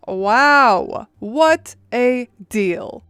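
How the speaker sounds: mock-impressed, drawn out slowly; slow sarcastic awe, leaning on each word. Narrator mocking a lopsided housing deal, sarcastic. Mocks a terrible housing offer.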